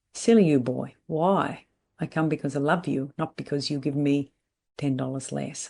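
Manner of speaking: lightly imitated Italian accent. Older client telling him she comes out of love, mild Italian accent. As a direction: quote them with a touch of an Italian accent. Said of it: "with a very strong Italian accent".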